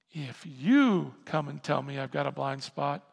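usual speaking voice

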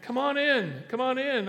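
high, cheery come on in; a lightly voiced host calling guests inside; welcoming host. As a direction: call them in like a glad host. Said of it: "and said".

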